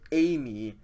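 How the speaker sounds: "A me" with the first syllable stressed. Shown as a demonstration. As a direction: lean on A, lighter on me. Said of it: "circumflex accent over the first iota".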